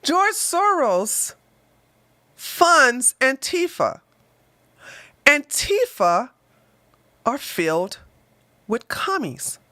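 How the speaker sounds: slow deliberate correction, stress on funds; corrected, slow and careful. Real, not acted. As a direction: set it right carefully, word by word. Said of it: "sorry, that was a lie".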